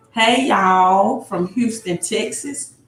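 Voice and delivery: drawn-out Southern greeting; put-on Southern accent. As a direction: lightly play up a Southern accent. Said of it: "Y'all gotta put that, that Southern accent in".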